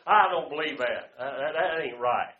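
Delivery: hammering home you gotta live it; retold loud quote. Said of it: "I tell somebody".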